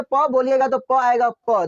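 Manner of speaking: slow, each प pressed out with both lips closing; sounding out प. Shown as a demonstration. Teacher to class, demonstrating the lip sound slowly. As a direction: pop the lips together on every प. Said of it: "प को बोल के देखिए".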